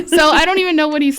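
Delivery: laughing through the words; words spilling out between laughs. Real, not acted. Laughing at cohost's joke.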